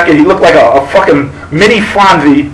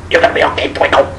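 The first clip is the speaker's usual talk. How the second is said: quieter, reassuring aside; soft reassurance; 3 semitones lower, 5 dB quieter, faster than usual. Retold or imitated. The little guy reassuring Twinkle on his way out, softly. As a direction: say it gently, low and soft.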